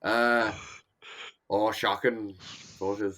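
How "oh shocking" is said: understated put-on Irish accent; lightly faked Irish accent; fake Irish accent. Shown as a demonstration. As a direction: try a fake Irish lilt. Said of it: "like, a fake Irish accent".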